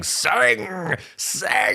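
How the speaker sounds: high, sing-song cry of sing; a lady calling out in falsetto. Pretend.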